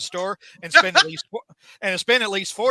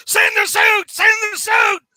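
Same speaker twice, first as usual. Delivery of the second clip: high, frantic scream; Spidey; 9 dB louder than usual. Retold or imitated. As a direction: scream the demand at full pitch. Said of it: "Spidey is screaming at Norman".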